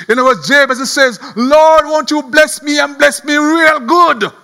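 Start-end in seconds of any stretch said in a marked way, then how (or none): 1.4-4.3 slow, drawn-out acted plea; crying out. Jabez asking the Lord to bless him, crying out. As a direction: implore God with preacher's insistence. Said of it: "Jabez cried out to the Lord".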